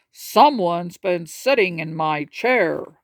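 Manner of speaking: slow, weighty Papa Bear; slow and ponderous, like a big bear; lightly voiced big bear. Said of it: "He announced in his very big voice".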